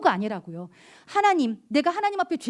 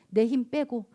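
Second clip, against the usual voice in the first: normal talking voice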